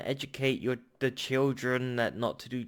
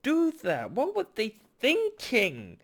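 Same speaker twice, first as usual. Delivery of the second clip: angry; 10 semitones higher than usual. Real, not acted. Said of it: "I'm sorry I'm getting angry".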